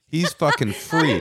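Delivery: said through a laugh, a bit slow. Real, not acted. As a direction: laugh out the words at the absurd picture. Joking about the coworker's happy life.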